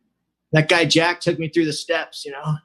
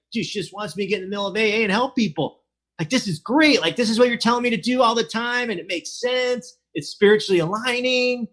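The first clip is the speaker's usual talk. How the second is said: higher, eager explaining; excited; 6 semitones higher than usual. Retold or imitated. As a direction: pour it out to him eagerly.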